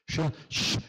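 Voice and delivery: Chi- and shh hissed as a long unvoiced sh; slushy sh for s. Shown as a demonstration. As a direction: draw out shh like a carioca. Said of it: "Carioca fala chiando".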